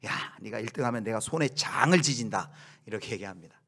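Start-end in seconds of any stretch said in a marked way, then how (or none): 0.1-2.5 a touch of a mother's scoff, a bit louder; mock her child's boast with a snort. Mother scoffing at her child's boast, mildly mocking. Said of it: "코웃음 치면서 이렇게 이야기하죠".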